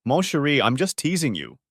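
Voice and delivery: put-on light French accent, teasing. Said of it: "said in her best French accent".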